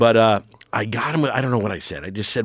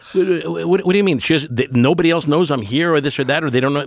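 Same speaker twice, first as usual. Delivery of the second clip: higher, pitched-up panicky questions; retold panic; 5 semitones higher than usual. Comic retelling his panic before a corporate gig, mock-frantic. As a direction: replay the rising panic, a bit hammed-up. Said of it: "I've never had a panic attack".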